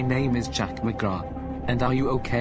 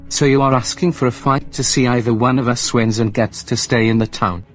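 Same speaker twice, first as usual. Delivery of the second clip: much louder, taunting challenge; angry shouting; 9 dB louder than usual. Acted. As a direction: shout back, daring him to fight. Rival accepts the fight.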